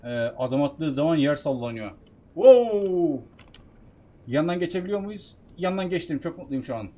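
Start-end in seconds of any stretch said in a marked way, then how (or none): 2.3-3.2 loud, drawn-out wow; higher, louder cry of awe; startled wow. Real, not acted. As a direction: react big to the giant. Giant shakes the ground.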